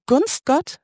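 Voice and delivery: can't believe what you heard; incredulous. Retold or imitated. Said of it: "Und ich so".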